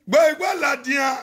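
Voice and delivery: Gbọ́ igbó làdìyàn shouted out quickly, Gbọ́ hit hardest; shouted repeat. Acted. Speaker shouts Gbọ́ igbó làdìyàn again at viewers, fast. Repeats the phrase, then louder.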